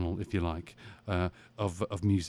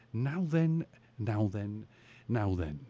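dim pompous cartoon cop; 3 semitones higher, slower than usual. Stock bobby catchphrase, voiced.

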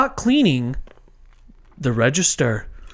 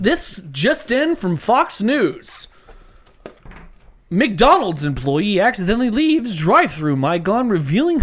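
news anchor voice; 3 semitones higher than usual. Acted. Mock news intro.

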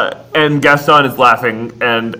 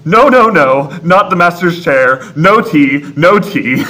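Clock's lines; 3 semitones higher than usual. Retold or imitated. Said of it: "Clock's lines".

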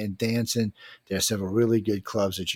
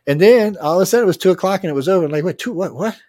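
mock shock; 8 semitones higher, 8 dB louder than usual. Shock at sudden closing time.

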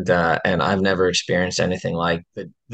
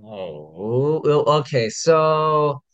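hoarse voice. Real, not acted. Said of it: "right now I have no voice".

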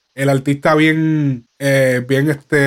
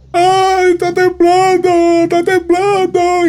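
high-pitched mock panic, dragged out; hammed-up fake fright, much higher; mock singer; 13 semitones higher, slower than usual. A singer filming his stories during the earthquake, mock panic. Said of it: "Un cantante hizo un video en sus stories diciendo".

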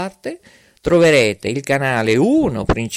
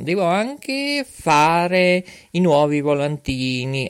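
ordinary talk, nothing marked

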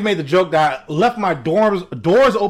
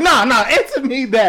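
laughing demand; 7 semitones higher than usual. Retold or imitated. Laughing mock customer demand.

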